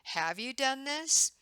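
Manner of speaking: "Have you done this" asked slowly with a high rising tune; questioning intonation. Shown as a demonstration. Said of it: "you're just questioning it, saying".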